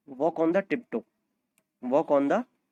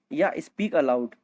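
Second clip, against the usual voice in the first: slow model phrase; much slower than usual. Shown as a demonstration. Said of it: "दो तरीके से बोला जा सकता है".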